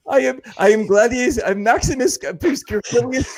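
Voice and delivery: mock gladiator. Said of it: "That sounds like you're a gladiator".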